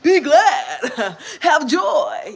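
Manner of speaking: mock-jubilant shout, high and loud; exuberant Jesus. Storyteller voicing Jesus cheering her up, laughing high shout. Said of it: "And Jesus is like".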